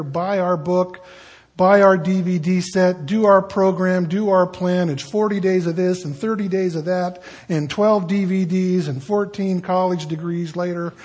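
a pushy salesman, lightly hammed; mock sales pitch. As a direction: sell it like a cheesy ad, half in jest.

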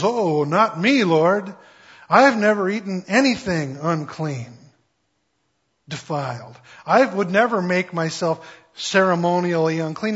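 protesting Peter. Acted. Peter voiced protesting vision.

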